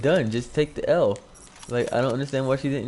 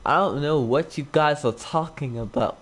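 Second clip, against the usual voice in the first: mocking imitation of an ugly-sounding girl; muffled girl's voice; 3 semitones higher than usual. Girl denying it to the guys, muffled mocking imitation. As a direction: mimic her muffled way of talking, mildly. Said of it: "she talked like this".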